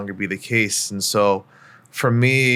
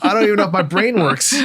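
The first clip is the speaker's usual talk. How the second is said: mock nervous doubt; 9 semitones higher, 4 dB louder than usual. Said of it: "And I was like".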